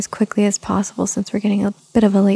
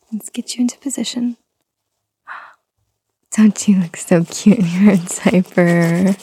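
gentle whisper. Acted. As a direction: hush it like cooing to a baby.

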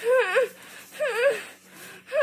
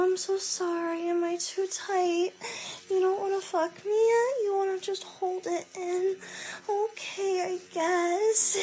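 higher-pitched pleading mock apology; 4 semitones higher than usual. Self-declared brat apologising to partner, high mock plea. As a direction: act coyly apologetic, pitched up. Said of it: "I go".

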